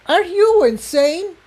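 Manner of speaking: high, disbelieving shout; a shrill, high disbelieving cry; incredulous shout. A narrator's reading. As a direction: tell him he's mad. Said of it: "Tiptoe shouted".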